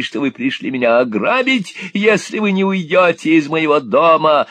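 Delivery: put-on high, loud gloating old miser; vile sneer. A narrator's reading. Old Gride threatening young Nicholas, sneering high. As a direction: threaten with a nasty grin. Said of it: "с гнусной усмешкой".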